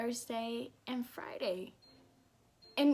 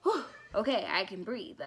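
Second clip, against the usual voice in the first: tired relief. Shown as a demonstration. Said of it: "but it was like a".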